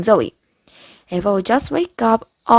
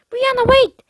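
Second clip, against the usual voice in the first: calling out; 3 dB louder than usual. A narrator's reading. Calling after sister.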